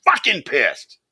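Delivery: loud angry outburst to chat. Real, not acted. Streamer venting to chat about drunk driving, loud and angry. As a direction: really let the anger burst out. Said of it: "because I'm pissed now".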